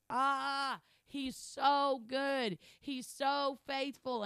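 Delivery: slow, savouring each word about God; tender praise. Real, not acted. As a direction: linger lovingly on so.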